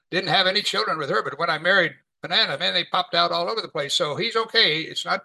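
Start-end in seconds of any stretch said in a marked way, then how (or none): 0.0-3.9 pompous. Retold or imitated. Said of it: "kind of pompously".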